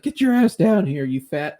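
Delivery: high, loud mock yell at the husband; retold yell. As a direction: bark it like the angry wife, hammed-up. Wife yelling at husband on phone.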